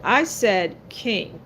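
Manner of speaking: slow, with "king" set apart and falling; stress on king. Real, not acted. Reader correcting queen or prince, "king" emphasized. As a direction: insist on the word "king", slowly. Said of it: "I put emphasis on the word king".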